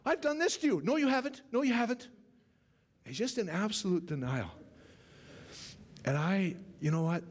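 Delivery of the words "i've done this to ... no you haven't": Black Knight. Retold or imitated. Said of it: "he's going".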